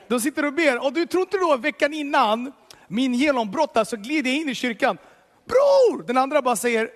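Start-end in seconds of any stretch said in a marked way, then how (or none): 5.4-6.0 loud, high joyful call across the room. Retold or imitated. Greeting a brother entering church, loud high call. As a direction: call out his name with delight.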